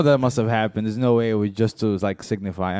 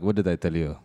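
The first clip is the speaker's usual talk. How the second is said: smug friend; 7 semitones lower, 5 dB quieter than usual. Retold or imitated. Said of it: "he goes like".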